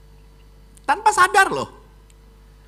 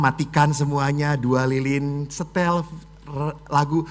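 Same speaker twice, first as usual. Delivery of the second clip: ordinary delivery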